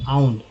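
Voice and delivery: आउंड blended into one word, "aa-oond"; joined pronunciation. Shown as a demonstration. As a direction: say आउंड whole, the pieces joined. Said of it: "आउंड बोलते हैं". (आउंड को जोड़कर बोलना)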